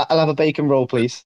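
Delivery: easy, matter-of-fact British model phrase; British accent demo. Shown as a demonstration. Giving the American a phrase to copy, British accent. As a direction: give a simple British example to copy. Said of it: "like, a fake British accent".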